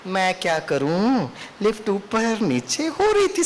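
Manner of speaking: slow, gentle and unhurried; calm excuse. Retold or imitated. Lecturer showing the calm way to answer the driver, slowly and gently. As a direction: say it calmly, without ego. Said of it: "मैं क्या बोल सकता था?".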